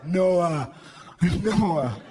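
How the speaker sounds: low, tired complaining lion voice; a fed-up lion moaning to Noah; weary lion. Acted. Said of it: "Just some lion".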